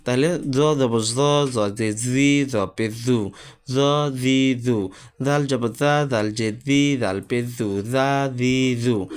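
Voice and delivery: slow, with জ and জাল said as a thin z from a soft tongue. Shown as a demonstration. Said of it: "পাতলা করে পড়তে হলে জিহ্বাটা খুব নরম করে পড়তে হয়".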